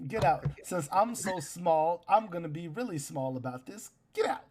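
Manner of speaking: high, loud, furious little voice; outraged gnome shout. Acted. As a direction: shriek at them to get out. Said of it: "Scanlan just looks at you like".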